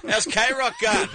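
high, slow, cheeky Kiwi fan imitation. Comedian imitating a fan back home, slow cheeky Kiwi. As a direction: draw it out like a ribbing mate.

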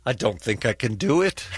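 attempted British accent that slips into Scottish; bad British accent. Shown as a demonstration. Asked by co-hosts for British, accent comes out Scottish. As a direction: try a British accent, landing nearer Scottish. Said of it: "That was Scottish".

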